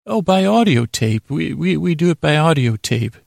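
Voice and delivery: lightly voiced receptionist.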